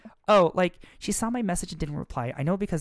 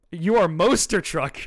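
louder, slow, giggling delivery; laughing reply; 2 semitones higher, 9 dB louder, slower than usual. Acted. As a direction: crack up while saying it. Amanda replies amused.

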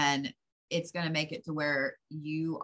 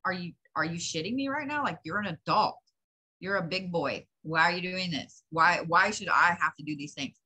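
fed-up rant; 4 dB louder than usual. Retold or imitated. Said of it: "you're like".

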